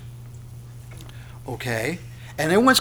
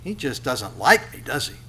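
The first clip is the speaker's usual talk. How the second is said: a light impression of someone sulking at God; whiny complaint; 4 dB quieter than usual. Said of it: "How many times have you heard that?".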